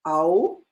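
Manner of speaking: "au" as in the English word ouch; teacher modelling "au"; diphthong as in "ouch". Shown as a demonstration. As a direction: say "au" with the ouch vowel, rising. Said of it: "it's pronounced like the au in the English word ouch".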